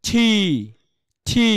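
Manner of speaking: ঠি with a puff on the consonant; correct pronunciation. Shown as a demonstration. Teacher models the sound after asking the class, aspirated ঠি. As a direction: say ঠি as a separate, aspirated syllable. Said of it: "এখানে কি হবে?".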